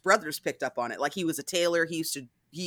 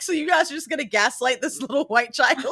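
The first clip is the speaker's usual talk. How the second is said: high, loud incredulous question breaking toward laughter; exaggerated outraged amusement; mock disbelief; 7 semitones higher, 4 dB louder than usual. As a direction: play up being scandalised by the scene. Acting own disbelief at scene.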